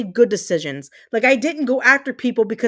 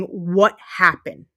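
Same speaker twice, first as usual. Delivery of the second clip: bewildered God; 6 semitones lower, much slower than usual. Retold or imitated. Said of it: "God and Jesus ... going".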